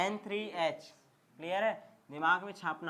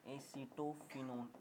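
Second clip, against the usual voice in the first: slow dictation; 4 semitones lower, 10 dB quieter, much slower than usual. Shown as a demonstration. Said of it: "लिख दूं क्या?".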